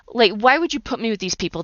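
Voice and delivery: mild reproach; retold complaint to God. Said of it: "I yelled and I screamed".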